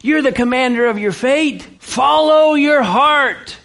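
slow, sing-song mock of worldly advice; mock sweet worldly slogan, slow and high; mocking the world's lie. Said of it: "Life is so much more fun and fulfilling if you do it however you want to".

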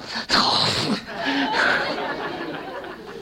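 breathy helpless laughter; real fit of giggles; breaking up laughing. Real, not acted. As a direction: lose it laughing mid-sermon. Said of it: "I just lost it".

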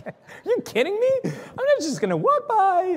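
quick, high-pitched disbelief; incredulous. Retold or imitated. Missionary talking himself into approaching the man, incredulous. Acts out his incredulous thought.

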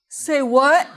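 indignant "say what". Retold or imitated. Teen student retorting indignantly to his teacher. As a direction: play the affronted teen.

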